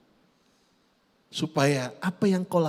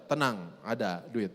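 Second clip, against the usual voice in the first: pretend calm; 7 semitones lower, 6 dB quieter than usual. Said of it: "saya pura-pura tenang saja".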